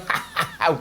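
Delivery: put-on cackle of silly troublemakers; mock laughing. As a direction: fake a gleeful "ha, ha, ha". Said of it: "than just going".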